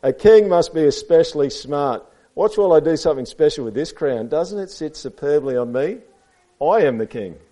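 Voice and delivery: lightly voiced storybook snake; boastful snake. A narrator's reading. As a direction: show off for the children. Reads Snake's speech to children.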